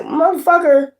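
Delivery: mock indignant dismissal; imagined confrontation. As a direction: act out calling someone out. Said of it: "you gonna be like".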